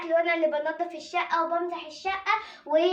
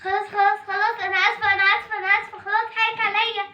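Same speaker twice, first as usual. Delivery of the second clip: higher, hurried scared apology; frightened pleading; 4 semitones higher, faster than usual. Acted. Scolded girl apologizing to her stepmother, frightened and pleading. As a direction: beg forgiveness in a panic. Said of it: "هي مالها مرعوبة ليه كده؟".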